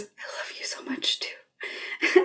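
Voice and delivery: slow, soft retold whisper; imitating a faint, drawn-out whisper. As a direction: whisper it tenderly, barely voiced.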